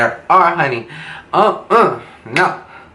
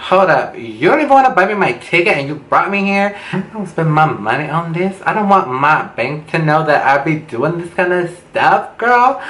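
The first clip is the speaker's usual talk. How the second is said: higher, quick, sassy outrage; sassy indignant retort; 5 semitones higher than usual. Retold or imitated. To her date who won't buy her ticket, sassy indignant outrage. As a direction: call him out with disbelief, voice jumping up on girl.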